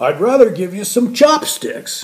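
put-on, blurted far too loudly, rising. Retelling a remark to Calvin at a full restaurant table, retelling a way too loud remark. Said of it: "in my way too loud voice".

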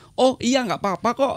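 very high-pitched, bright, polite tone. Role-play reply to an apology for being an hour late, high-pitched voice. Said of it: "suaranya tinggi tuh".

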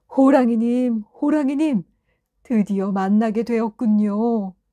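delighted, glad, joyful calling-out shout. A young man bows before the tiger and greets it, gladly shouted. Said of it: "반갑게 소리쳤어요".

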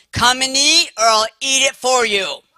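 loud, high-pitched, big calling holler. Speaker re-enacts calling brothers home to dinner from blocks away: retelling a loud call home. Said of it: "I have a big voice because I had to 5 blocks down the street call my brothers home".

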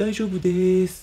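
fearful, hesitant, high, very slowly drawn out. Recounting how someone answered without looking at them, imitating a timid voice. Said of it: "すごい恐る恐る".

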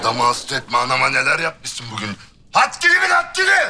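loud, high, heated angry shouting. A son yells at his wife in front of his mother, shouting angrily. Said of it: "benim yanımda gelinime bağıramazsın".

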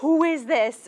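shrill, very high, loud screaming shriek. Recalling finding an old baby-book photo, retelling own screaming at it. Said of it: "I'm literally screaming".

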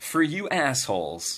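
fond, affectionate, endearing teasing tone. Testing a device live on Facebook, the speaker addresses viewers in an endearing tone. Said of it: "with the most endearing tone when I call you assholes".

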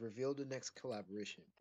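ordinary talk

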